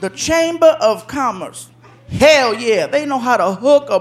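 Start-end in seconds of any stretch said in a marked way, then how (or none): 0.0-1.7 slow, lightly performed card reading; reading card aloud. Retold or imitated. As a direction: read it out slowly, stretching the words. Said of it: "He gets to the greeting card".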